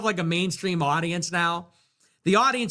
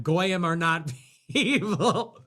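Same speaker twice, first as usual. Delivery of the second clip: mock laughing; slower than usual. Mocking, laughing.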